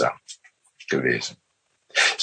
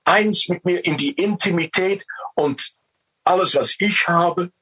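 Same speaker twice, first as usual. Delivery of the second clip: lightly raised, loving voice of God; 4 semitones higher than usual. Retold or imitated. God telling man he gives all, lightly raised voice. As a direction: speak as God offering everything. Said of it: "Er sagt".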